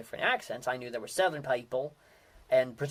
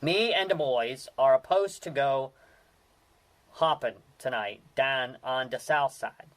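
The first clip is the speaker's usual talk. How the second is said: Pittsburgh accent example; 3 dB louder than usual. Shown as a demonstration. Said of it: "here's one I used".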